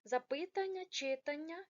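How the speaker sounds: mock the typical error in "запитання", "читання"; wrong stress shown. Shown as a demonstration. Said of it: "помилки, коли говорять". (показати поширену помилку в наголосі)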